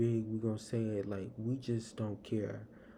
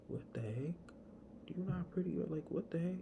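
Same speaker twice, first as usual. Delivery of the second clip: incredulous; 7 semitones higher, 4 dB quieter, faster than usual. Retold or imitated. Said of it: "I'm like".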